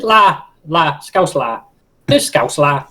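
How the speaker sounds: "la" for lad, with the d dropped; Scouse pronunciation. Shown as a demonstration. Turning Scouse lad into dialect, "la" without its final d. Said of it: "The Scouse lad".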